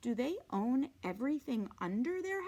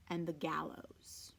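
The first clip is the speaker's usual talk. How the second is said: whispered; 6 semitones lower, 4 dB quieter than usual. A narrator's reading. Ominous word in narration.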